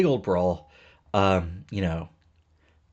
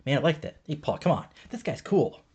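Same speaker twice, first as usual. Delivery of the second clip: pitched-up, laid-back buddy impression; higher easygoing dude, lightly voiced; chill dude voice; 7 semitones higher than usual. Van Dam telling Paul to lighten up, higher laid-back dude voice. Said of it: "And I was like".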